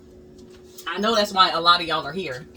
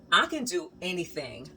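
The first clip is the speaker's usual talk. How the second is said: softer, awed murmur to herself; hushed self-amazement; 6 dB quieter than usual. Retold or imitated. Standing back from her finished wall, softly awed. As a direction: breathe it out in quiet wonder. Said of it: "I was like".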